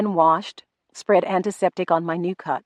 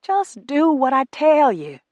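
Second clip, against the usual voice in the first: 1 firm command; 8 semitones higher, 5 dB louder, slower than usual. A narrator's reading. Rufus commands her.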